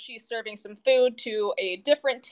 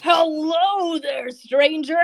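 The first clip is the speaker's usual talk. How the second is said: loud, hearty innkeeper greeting a stranger; jovial barkeep; 5 semitones higher, 5 dB louder, slower than usual. Acted. Barkeep greets the goliath stranger, hearty and loud. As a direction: boom out a cheerful welcome. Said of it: "he kind of laughs it off and he goes".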